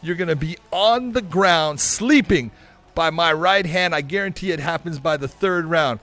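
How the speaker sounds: lightly voiced cocky YouTuber threat; a hint of brash influencer bravado; Jake Paul impression. Jake promising a knockout to Conor, lightly voiced cocky bravado. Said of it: "John, you're gonna play Jake".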